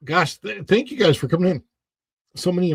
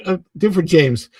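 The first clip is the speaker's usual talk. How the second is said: usual speaking voice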